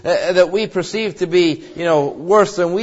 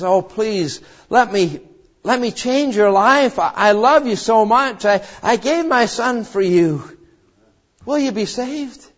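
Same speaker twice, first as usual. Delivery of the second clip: God pleading; 3 semitones higher than usual. Retold or imitated. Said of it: "But God says".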